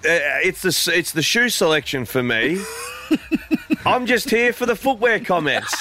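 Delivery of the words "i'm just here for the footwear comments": laughing while talking. Real, not acted. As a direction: giggle through the line. Laughing at shoe photo.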